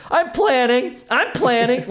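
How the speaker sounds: high, breezy insincere repeat; fake reassurance. Customer bluffing the finance rep, breezy and insincere. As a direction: say it lightly with no intention behind it. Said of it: "with, like, no intention of planning".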